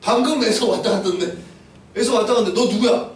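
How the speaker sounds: mildly startled, puzzled questioning. Acted. Father startled by a second son, surprised questioning. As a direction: ask in acted surprise. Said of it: "완전 깜짝 놀란 거예요".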